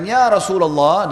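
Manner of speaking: loud, high, drawn-out call; Abu Bakar. Retold or imitated. Abu Bakar addresses the Prophet before everyone, calling loudly. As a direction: hail him slowly across a distance. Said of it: "dengan suara keras".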